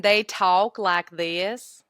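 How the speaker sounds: slow, drawn-out redneck twang; redneck accent. Shown as a demonstration. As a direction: stretch it out like a country redneck. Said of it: "so a redneck is".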